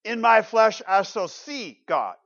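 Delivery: slow and loud, "my" in "In my flesh" pressed hard; emphasis on my. Shown as a demonstration. Preacher to congregation, hammering "my" slowly. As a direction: preach it, leaning on "my". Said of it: "notice the emphasis on seeing".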